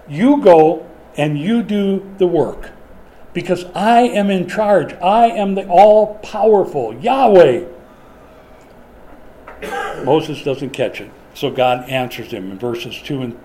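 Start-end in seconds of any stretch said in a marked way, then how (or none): 0.1-7.6 loud, slow divine command; commanding God. Retold or imitated. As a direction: lay down the law as Yahweh.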